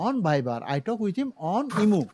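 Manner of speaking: very slow dictation; teacher modelling; slow model sentence. Shown as a demonstration. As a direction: say "I talk with him on Imo" slowly. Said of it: "on লাগাই দেবেন".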